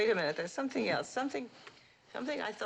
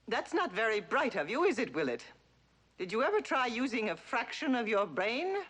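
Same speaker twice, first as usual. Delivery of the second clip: lightly voiced imitation of the stern mother scolding; a hint of the haughty mother talking down to her son; mother impression. Actress tries the mother's voice on Willett, a light mock scold. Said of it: "Say something to my son".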